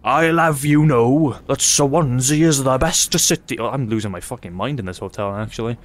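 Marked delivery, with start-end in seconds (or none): 0.0-3.6 hammed-up Swansea accent, pitched up; mock Swansea local. Swansea commenter defending his city, mock indignant Swansea accent. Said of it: "Swansea Jacks in the comments now being like".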